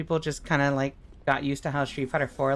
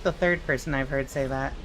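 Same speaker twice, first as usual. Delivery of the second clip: normal talking voice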